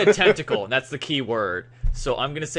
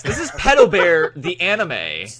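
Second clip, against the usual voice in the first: booming movie-trailer announcer, higher and louder; old sci-fi announcer; 4 semitones higher, 5 dB louder than usual. Pretend. Announcing a joke anime title.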